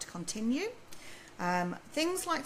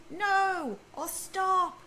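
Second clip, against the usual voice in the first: a quick sharp NO and STOP, raised; sharp telling-off; 9 semitones higher, 6 dB louder, much slower than usual. Retold or imitated. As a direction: snap a short command at a child. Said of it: "too often we say".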